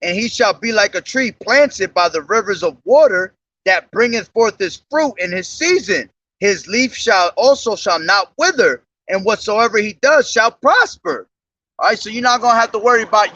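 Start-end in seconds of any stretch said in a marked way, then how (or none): 0.0-11.3 measured, solemn Bible reading; solemn King James recitation; scripture reading. Acted. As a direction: read the verses like a preacher. Reads scripture aloud.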